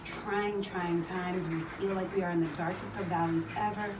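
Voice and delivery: praying aloud during a wall sit. Acted. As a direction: pray while holding a wall sit. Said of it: "let us pray".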